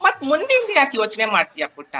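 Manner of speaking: ordinary delivery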